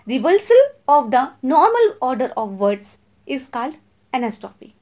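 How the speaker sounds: each word spaced out for notes; slow, clear classroom dictation. Shown as a demonstration. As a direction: read it out slowly so students can write. Repeats definition for notes.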